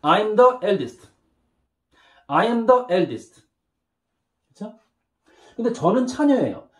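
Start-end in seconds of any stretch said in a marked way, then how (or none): 0.0-3.4 slow repeat-after-me. Shown as a demonstration. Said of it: "따라합니다".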